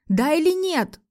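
high-pitched desperate demand; crying out. A narrator's reading. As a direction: cry out for a straight answer. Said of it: "буквально закричала я".

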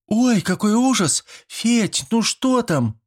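put-on very high, slow girlish wail; wailing girls. A narrator's reading. Schoolgirls wail down to Fedka in horror, very high. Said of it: "заголосили на разные голоса девчонки".

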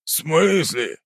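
high startled question; surprised. Acted. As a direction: blurt in surprise. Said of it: "Глаза Тихоновича округлились".

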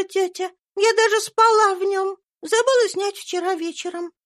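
put-on high, light child's voice; a cheerful young girl chatting to her aunt; little girl voice. A narrator's reading. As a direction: speak as a sweet little girl. Little Eva answers aunt.

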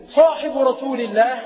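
mildly astonished question, rising at the end; stunned disbelief. Acted. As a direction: ask it with a touch of amazement. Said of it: "فقال البائع في ذهول". (بشيء من الذهول)

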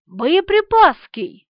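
high, slow, drawn-out triumphant guess; proud brainwave. A narrator's reading. Lieutenant proudly unveiling his invented surname. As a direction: deliver it like a hard-won discovery. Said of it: "родил лейтенант Березкин".

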